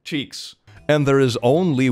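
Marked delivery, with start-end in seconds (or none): 0.0-0.5 high, hammed-up anime trainer shouting attacks; mock Pokemon trainer. Reader parodies Pokemon with God disclaimers, high cartoon voice. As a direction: ham up a cartoon battle call.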